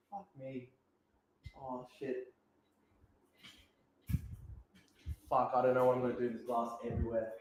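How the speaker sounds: quiet muttering to himself. Real, not acted. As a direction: mutter under your breath. Muttering while picking up glass.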